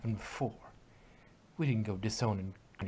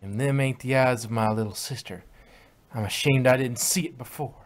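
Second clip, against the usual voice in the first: louder, cold country accusation; angry accusation; 5 dB louder than usual. Acted. Applejack confronting the fake Apple Bloom, loud and accusing. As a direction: call out the impostor.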